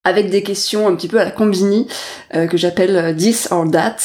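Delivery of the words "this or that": a slightly slowed, self-mocking English accent on the words this or that. Shown as a demonstration. Host introducing her quiz segment to her guest, in a jokey English accent. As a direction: say this or that with a playful put-on English accent. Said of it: "avec mon super accent anglais".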